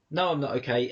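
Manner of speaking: understated sad "No, I'm not okay"; sad reply. Retold or imitated. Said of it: "if you're sad and someone says".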